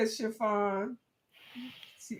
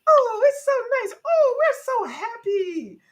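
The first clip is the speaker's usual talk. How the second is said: dainty Mother Nature; 9 dB louder than usual. Retold or imitated. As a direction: coo it out like a prissy delicate lady. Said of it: "all dainty".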